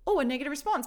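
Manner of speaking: imitating her own gut flinch; a playful startled gasp; mock startled. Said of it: "that little, like, twing of".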